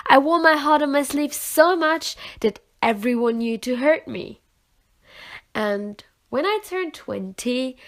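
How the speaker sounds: building intensity. Acted. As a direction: push each line harder, pouring it out. Poem builds to a peak.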